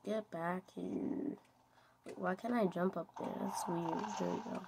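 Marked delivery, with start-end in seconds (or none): 0.0-1.4 softer, slow, resigned repeat; half-hearted quiet call after him. Real, not acted. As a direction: say it again under your breath.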